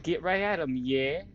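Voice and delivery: rally them in a put-on British accent; mock British accent. Player urges friends to go fight, mock British accent. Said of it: "my British accent".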